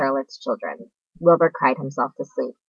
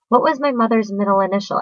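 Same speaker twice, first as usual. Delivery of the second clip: higher small spider voice; second spider; 5 semitones higher than usual. A narrator's reading. Second spider asking Wilbur about her mother. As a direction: ask brightly as a little spider. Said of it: "asked the second spider".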